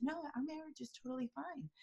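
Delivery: quiet, breathy-soft mock denial; imitating a hushed nervous denial. Expert imitating a pop singer in an interview, soft denial. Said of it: "voice went down really soft and said".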